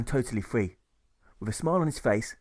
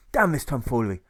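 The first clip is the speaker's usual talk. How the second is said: angry curse; 5 dB louder than usual. Acted. Marshal curses the scene.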